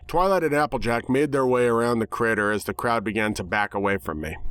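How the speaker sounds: ordinary delivery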